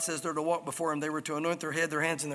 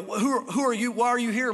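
raised, challenging demand; indignant challenge; 4 semitones higher, 4 dB louder than usual. Acted. Jezebel at the window to Jehu below, indignant challenge. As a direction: challenge the intruder from above.

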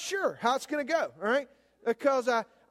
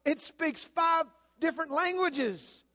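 outraged son; 6 semitones higher than usual. Retold or imitated. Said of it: "He said".

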